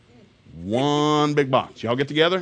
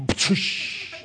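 breathy pshh of a popped lid; unvoiced hiss sound effect. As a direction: imitate the sealed bowl popping open. Bowl lid popping.

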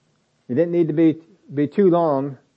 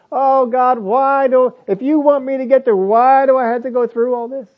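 higher, whiny questioning of God; mock whining prayer; 10 semitones higher, 4 dB louder than usual. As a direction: imitate a puzzled, whining believer. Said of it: "Jesus doesn't whine and complain".

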